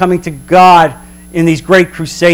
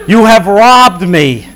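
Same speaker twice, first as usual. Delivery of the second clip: voice of God; 3 dB louder, slower than usual. Acted. God's words read slowly.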